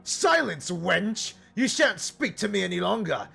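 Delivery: high, haughty snap at the oracle; unhinged command. Acted. Paladin snapping at the oracle, mock haughty. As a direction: lord it over her, lightly unhinged. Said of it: "go completely unhinged".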